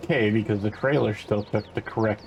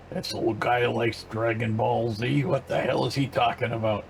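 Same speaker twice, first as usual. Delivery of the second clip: put-on old person voice. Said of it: "As I do it in my old person voice".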